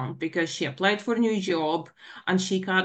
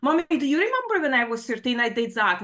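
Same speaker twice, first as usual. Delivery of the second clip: passive-aggressive snapping; 4 semitones higher, faster than usual. Retold or imitated. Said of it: "passively aggressively snapping".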